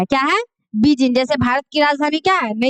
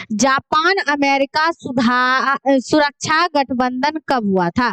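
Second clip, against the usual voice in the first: slow question reading; slower than usual. Acted. Reads quiz question slowly.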